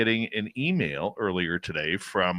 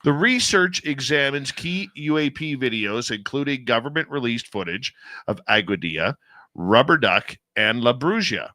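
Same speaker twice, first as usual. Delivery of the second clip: emphatic press-release read; news read. Real, not acted. Host reading released study summary on air, news read. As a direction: deliver the release in punchy phrases.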